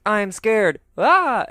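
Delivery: hammed-up fright then a high shriek; mock scared scream. Host acting out Diane's fright, ending in a high yelp. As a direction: play Diane scared, rising to a loud yelp. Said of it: "Diane's like".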